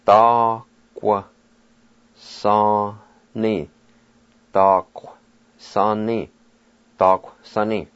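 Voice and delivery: "Ta, kwa, sa, ni" spoken syllable by syllable with a clear kwa; Cherokee syllables. Shown as a demonstration. Teacher modelling the Cherokee word for turnip. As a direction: separate each syllable "Ta, kwa, sa, ni". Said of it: "pronounced like this".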